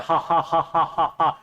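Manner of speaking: a few spoken ha ha laughs; acted laugh. Shown as a demonstration. Teacher acting out the mocking laugh for the class. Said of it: "हंस रहे हैं".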